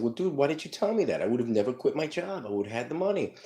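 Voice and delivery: high, loud, outraged pleading; indignant shout at dad. Retold or imitated. Son confronting father who broke promise, outraged shout. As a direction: yell it like a betrayed teenager.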